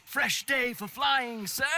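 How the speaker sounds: excited exclamation. Acted. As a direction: call it out with gusto. Pilot exclaims about the weather.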